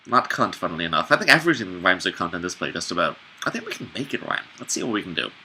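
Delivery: quiet fast tired aside; tired late-night mumble. Real, not acted. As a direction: mumble it at three in the morning. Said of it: "it's three in the morning".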